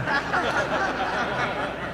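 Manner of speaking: a soft amused chuckle at his own trivia. Real, not acted. Preacher chuckling at his own trivia, soft laugh. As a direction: laugh it off lightly.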